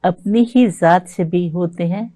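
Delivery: slow, measured ghazal recital; ghazal recitation. Acted. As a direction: recite it like at a mushaira.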